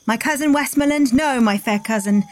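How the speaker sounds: stage king rallying his men; Shakespeare recital. Acted. Cohost reciting Henry V to the host, in a lightly declaimed stage voice.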